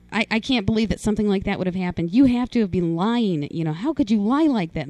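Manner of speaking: a fast, loud accusing rant; mom's disbelieving scolding, retold; retold screaming. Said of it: "my mom's screaming at me".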